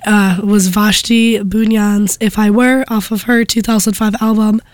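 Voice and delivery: hoarse, under-the-weather voice; talking through a cold; sick voice. Real, not acted. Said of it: "I think that my voice right now sounds like".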